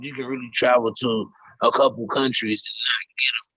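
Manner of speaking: distant, muffled phone audio; words sound far off down a hall; hallway echo. Real, not acted. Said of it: "it still sound like you in the hallway".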